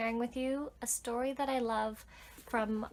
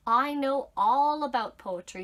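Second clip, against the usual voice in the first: boastful tub voice; 8 dB louder than usual. Acted.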